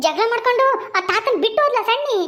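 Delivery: pressing for juicy news, delighted; gleeful excitement. Acted. Mother hears gleeful gossip.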